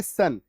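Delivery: सन given as one short syllable; ION sound demo. Shown as a demonstration. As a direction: model the ending सन. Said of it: "इसका उच्चारण आता है". (सन का उच्चारण दोहराते हुए)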